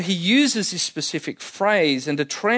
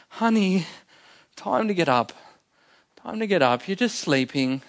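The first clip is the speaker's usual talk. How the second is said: tender wake-up; 2 semitones higher than usual. Retold or imitated. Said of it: "Look at the tenderness".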